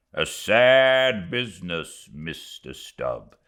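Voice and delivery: a hint of a stern mate; grim first mate. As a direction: keep it earnest and set. Starbuck speaking out.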